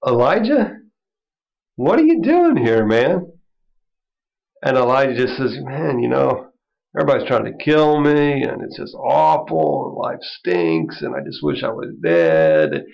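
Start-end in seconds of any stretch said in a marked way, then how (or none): 0.1-3.3 high, loud summons; calling out. Retold or imitated. God calling Elijah in the cave, a high loud call. 5.6-12.8 pity party. Retold or imitated. Elijah whining to God in the cave, sinking into a mock sulk. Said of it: "tremendous pity party".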